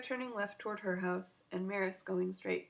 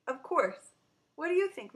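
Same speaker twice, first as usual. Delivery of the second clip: high, louder and bright; cheerful yes; 7 semitones higher, 6 dB louder than usual. Acted. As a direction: invite her in gladly. Mom enthusiastic.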